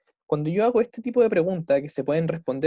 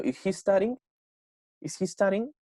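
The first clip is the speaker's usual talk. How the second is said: "Is he studying?" getting higher towards the end; rising question intonation; 5 semitones higher than usual. Shown as a demonstration. Teacher demonstrating her voice going upwards, rising intonation. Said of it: "la voy haciendo un poquito más aguda".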